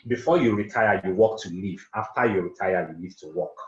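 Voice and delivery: teacher hammering home the key line; stressed maxim. Shown as a demonstration. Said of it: "Let me say that again".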